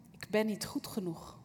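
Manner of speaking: whispered, as the small voice of self-doubt; whispered inner doubt. Retold or imitated. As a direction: breathe it like a secret fear. (fluisterend, vol twijfel)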